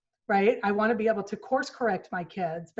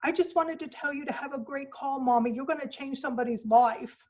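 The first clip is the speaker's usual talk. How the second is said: a hint of a sweet small child, higher; lightly voiced little girl; 5 semitones higher than usual. Little girl wishing her mom a great call, sweet. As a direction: sweetly encourage mommy. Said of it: "my sweet little girl said to me".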